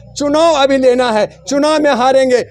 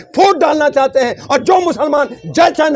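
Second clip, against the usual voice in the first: raised shouting voice, pitched up; heated shout; 4 semitones higher than usual. Real, not acted. Panelist shouting over the other debater, heated shout. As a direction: shout him down, fired up.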